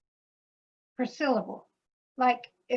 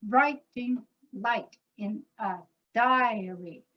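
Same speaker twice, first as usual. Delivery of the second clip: slow, stress on "writing" and "diary"; per-syllable stress; slower than usual. Shown as a demonstration. Composer showing the stressed pulse, slowly. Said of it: "emphasis on certain words like writing".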